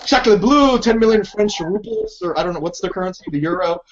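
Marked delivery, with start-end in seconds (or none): 0.0-2.2 high mock French exclamation; hammy French guy gasping; French accent. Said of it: "The Jacques is like".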